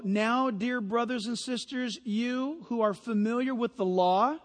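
careful, measured scripture reading; slow reading. Real, not acted. Preacher reads scripture to the congregation, slow and careful. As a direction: read it out deliberately. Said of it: "I'll read it slow".

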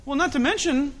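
NOT teased up high, coy and pointed; coy pastor hinting at a debt with "not to mention"; sly not to mention. Shown as a demonstration. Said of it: "You ever talk like that?".

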